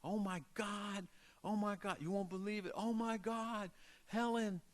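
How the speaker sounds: high excited screaming; frantic high-pitched girl screaming for her sister. A narrator's reading. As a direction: shriek it out like a breathless kid with news. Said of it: "and screaming".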